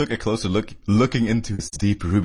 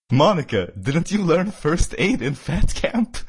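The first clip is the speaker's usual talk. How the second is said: higher, lightly teasing question; slightly joking; 6 semitones higher, slower than usual. A narrator's reading. Chandler teases Monica about first aid, slightly joking. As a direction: read it as a gentle jibe. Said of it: "slightly jokingly".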